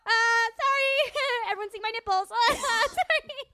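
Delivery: frazzled daughter, hurried; flustered teenage girl rushing; silly clown. Acted.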